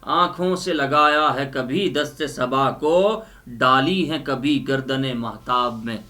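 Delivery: measured, expressive Urdu poetry recital; poem recitation. Acted. Reciting Faiz's poem to the audience, expressive recital. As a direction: declaim each line, repeating the best ones.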